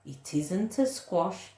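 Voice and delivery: gentle bedtime read-aloud; storybook narration. A narrator's reading. Closing verse read aloud.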